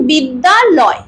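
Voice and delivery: বিদ্যালয় drawn out in separate parts; ভেঙে ভেঙে উচ্চারণ. Shown as a demonstration. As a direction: say বিদ্যালয় slowly, syllable by syllable. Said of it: "ভেঙে ভেঙে উচ্চারণ করা উচিত". (বিদ্যালয় শব্দটা ভেঙে ভেঙে, ধীরে)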